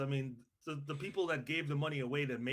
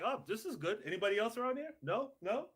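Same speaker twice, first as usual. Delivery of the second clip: higher-pitched voice of a settler calling round; acted homesteader; 5 semitones higher than usual. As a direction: lightly act out checking for neighbours. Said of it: "You just show up and like".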